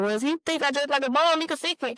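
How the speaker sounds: a touch of mocking his self-pity; imitating him. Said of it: "He said".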